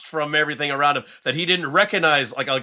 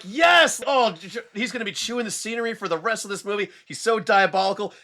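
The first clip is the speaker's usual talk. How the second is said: higher, gleeful fanboy rave; excited fan gushing; 5 semitones higher than usual. Retold or imitated. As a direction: gush over the hammy villain. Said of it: "And so I'm like".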